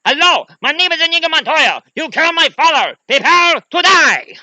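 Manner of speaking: very high, full-out screamed vow; Inigo Montoya. Acted. Wounded swordsman still fighting, high screamed battle cry. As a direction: scream the vow, stretching the last words. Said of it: "still is alive and still fighting".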